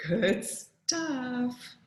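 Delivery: mumbling with food in mouth; mumbled through a mouthful. Acted. Dad eating pie, mumbling through a mouthful. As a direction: say it round a bite of pie. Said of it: "he mumbled through a mouthful".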